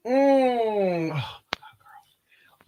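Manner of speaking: breathless whisper over a good smell; whispered awe. Real, not acted. Vlogger smells a candle and whispers in awe. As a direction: whisper it like it's too good.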